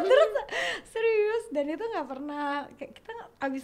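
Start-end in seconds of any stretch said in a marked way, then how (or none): 0.9-1.4 high, loud retold squeal with a laugh; giggly re-enacted disbelief, pitched up; excited disbelief. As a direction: act out being thrilled and incredulous. Retelling her excited reaction.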